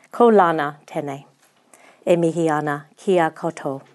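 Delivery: te reo Māori mihi said in a careful American accent; formal Māori greeting with American vowels, carefully paced. Real, not acted. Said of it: "the best I can do in my American accent".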